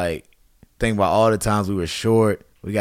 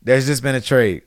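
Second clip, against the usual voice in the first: joking warning; 4 semitones higher, 4 dB louder than usual. Retold or imitated. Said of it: "And Ozzie goes".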